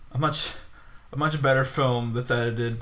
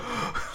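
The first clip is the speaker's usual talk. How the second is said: awed gasp; 7 dB quieter than usual. Pretend. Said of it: "come around and go".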